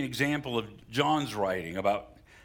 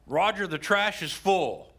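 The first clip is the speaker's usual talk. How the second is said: higher, slow, pointed hint; wife's hint; 5 semitones higher, 3 dB louder than usual. Retold or imitated. Preacher imitating his wife hinting at chores. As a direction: spell out "Roger, the trash is full" slow and pointed.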